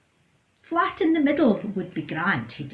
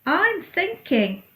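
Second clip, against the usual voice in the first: slow pondering; 10 semitones higher, 4 dB louder, slower than usual. Acted. Goat ponders aloud.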